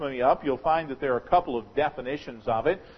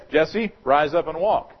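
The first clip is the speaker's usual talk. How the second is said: loud healing command; 6 dB louder than usual. Shown as a demonstration. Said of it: "I can stand there and say".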